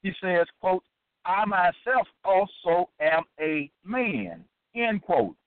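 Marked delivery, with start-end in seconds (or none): 1.2-4.4 slow, deliberate quoted verse; measured, emphatic recitation; scripture quotation. Acted. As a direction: set each word apart as you read. Reads a quoted verse aloud.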